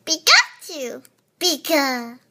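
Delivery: lightly voiced cute creature; a hint of Pikachu's squeak. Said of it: "Pikachu impression".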